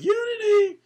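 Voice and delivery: high yelled chant, mock rally cry; shouted cheer. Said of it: "they were like".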